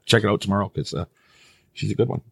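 normal talking voice

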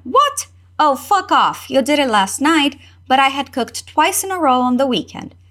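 a touch of irritation, leaping up on What; mildly annoyed. Acted. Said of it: "se irrita um tiquinho de nada". (garota levemente irritada)

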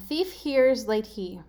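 thief, hears, late, he as separate words; deliberate spaced-out gibberish clue; slow readout. Shown as a demonstration. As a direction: read it slowly, word by word. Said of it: "better if I read it fast".

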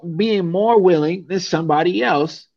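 ordinary delivery

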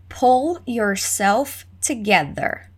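slow, careful drill reading of "Pull yourself together"; slow model read. Shown as a demonstration. Teacher modelling the phrase slowly for students to repeat. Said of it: "Let's repeat".

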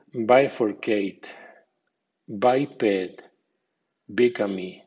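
BI-furcate, BI-ped, BI-gamy; strong bi in bifurcate, biped, bigamy; strong stress on prefix. Shown as a demonstration. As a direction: hit the first syllable of bifurcate, biped, bigamy. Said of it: "y con acento fuerte".

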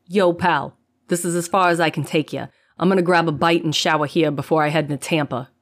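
rough-edged trucker talking; gruff trucker voice. Acted. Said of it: "The driver's gruff voice".

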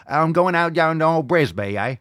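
high, loud hammed-up Aussie voice; Australian accent. Host mocks Australian viewers with a loud put-on Aussie accent. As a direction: belt it like a cartoon Aussie. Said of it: "It's probably what".

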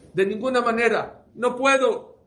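high, loud firm refusal; insistent refusal. Acted. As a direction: refuse outright, no room for argument. Guest refuses owner's offer.

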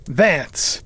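reading aloud. A narrator's reading. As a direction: announce the name from a ledger. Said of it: "he read aloud".

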